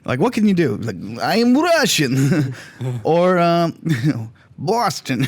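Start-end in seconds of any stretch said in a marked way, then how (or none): 1.2-2.5 mock Russian accent. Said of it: "movie accents are either Russian".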